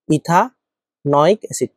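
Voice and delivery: ইথানয়িক অ্যাসিড said very slowly and clearly; teacher pronouncing ইথানয়িক অ্যাসিড slowly for the class; slow dictation. Shown as a demonstration. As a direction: drag out ইথানয়িক অ্যাসিড so it can be written down. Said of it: "উচ্চারণটা একটু পরিবর্তিত হয়ে ইথানয়িক অ্যাসিড".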